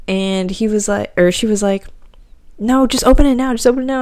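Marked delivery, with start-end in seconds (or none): 2.6-4.0 higher-pitched, insistent retold urging; urging mom. Mom urging daughter to open the email, insistent. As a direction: imitate an eager mom pushing for action.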